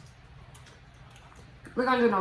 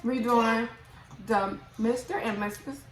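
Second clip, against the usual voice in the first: talking with a full mouth; words pushed round a mouthful; cheeks stuffed full. Real, not acted. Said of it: "I can't talk".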